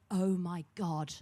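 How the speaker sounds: low, slow, swooning Oh my God; soft adoring fan imitation; gushing fan. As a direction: mimic every woman swooning over her. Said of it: "has the same six-word reply".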